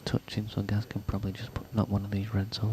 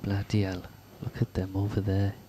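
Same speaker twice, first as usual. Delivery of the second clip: put-on Welsh accent. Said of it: "in his very strong Welsh accent".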